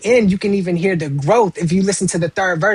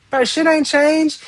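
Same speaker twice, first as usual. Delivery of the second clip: exasperated homeboy; 8 semitones higher, slower than usual. Retold or imitated. Quoting a homeboy back home.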